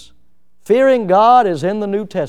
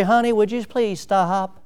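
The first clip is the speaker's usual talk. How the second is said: polite request; 2 semitones higher, 4 dB quieter than usual. Shown as a demonstration. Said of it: "you don't say".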